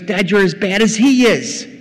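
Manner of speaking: high, loud, incredulous accusation; acted outrage at dad's wastefulness; angry elder son. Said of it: "See what the son is saying".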